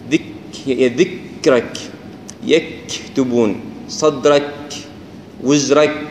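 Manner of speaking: "ذكرك" very slow, with a long airy puff after k; hams on still kaf. Shown as a demonstration. Teacher demonstrating the hams, drawn-out airy k. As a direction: let breath stream out after k in "يكتبون". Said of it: "هذا الهمس".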